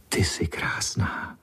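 slow, whispered wonder; breathed in awe. Acted. Boy sees the golden cat, awed slow whisper. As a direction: breathe it out, amazed. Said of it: "Jenom jsem vydechl".

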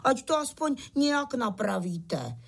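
insistent little appeal; pleading with uncle. Acted. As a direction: urge him to put it right. Beetles plead with Pytlík.

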